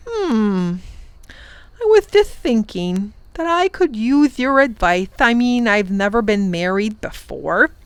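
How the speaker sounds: a royal groom admitting his doubts; nervous Wangdoodle. Acted. The Wangdoodle confides his worries about marriage, shy.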